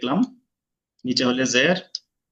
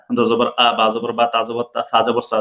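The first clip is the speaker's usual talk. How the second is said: quick recitation drill; 2 semitones lower than usual. Shown as a demonstration. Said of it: "যত দ্রুত পারেন".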